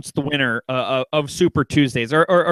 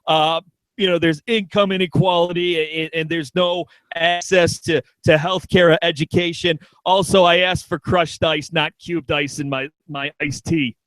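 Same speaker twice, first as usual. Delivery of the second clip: Bernie Sanders impression. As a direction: grumble like a picky diner. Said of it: "on the Upper West Side saying".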